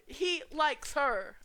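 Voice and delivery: loud, high, very slow singsong tease; teasing shout. Acted. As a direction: stretch it out slowly to rub it in.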